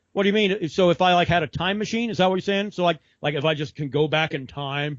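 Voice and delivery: mock heckling, pitched slightly up. Retelling the fighter's retort to an interviewer, mock heckling. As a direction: imitate a patronizing, needling comeback. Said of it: "she immediately starts heckling him with".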